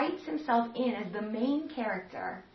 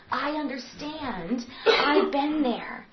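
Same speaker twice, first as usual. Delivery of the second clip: slow empathetic; 5 semitones higher, slower than usual. Acted. Jesus voiced, empathetic.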